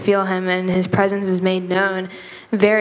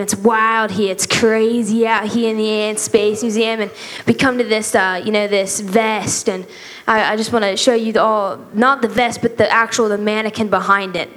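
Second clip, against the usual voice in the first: retold tour-guide bit in a light Australian accent. Giving the youth a museum tour, light Australian accent. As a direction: play the museum guide with a mild Australian twang. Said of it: "I did an Australian accent".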